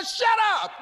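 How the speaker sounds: retold shout. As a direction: snap back at the voice saying you can't.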